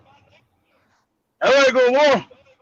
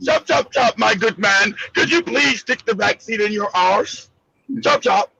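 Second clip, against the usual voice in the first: mock posh British; 3 semitones lower than usual. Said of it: "General Mosquito's accent is too proper".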